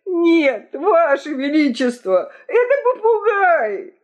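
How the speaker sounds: very high, excited cry; urgent revelation. A narrator's reading. Key-keeper naming the parrot as thief, urgent high cry. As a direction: let the pitch leap on the culprit.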